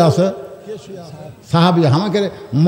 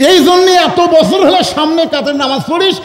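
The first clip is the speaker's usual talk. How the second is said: high-pitched rebuke in a story; mild acted scolding; 7 semitones higher than usual. Shepherd scolding Osman for being blind, mildly indignant. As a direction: tell him off, lightly acted.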